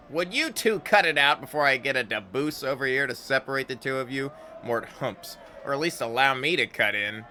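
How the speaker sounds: lightly voiced mocking companion; teasing Mort. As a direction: rib the couple. Mort teases the kissing pair.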